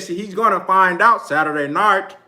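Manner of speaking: lightly put-on country UK accent; Kell Brook's UK accent. Fan imitates a boxer's taunt, light mock UK accent. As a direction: mimic a country UK accent a little. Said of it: "He got a country-ass U K accent".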